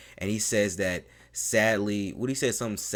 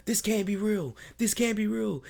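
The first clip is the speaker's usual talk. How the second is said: Kevin Owens in disbelief; 14 semitones higher than usual. Retold or imitated. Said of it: "He's like".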